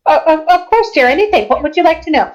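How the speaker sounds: high, doting character voice; indulgent ancient being. Acted. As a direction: invite the question in a high, obliging voice.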